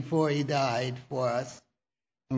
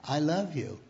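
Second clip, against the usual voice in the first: soft close to the ear, a touch quieter; said in her ear; 5 dB quieter than usual. Retold or imitated. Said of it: "said in her ear".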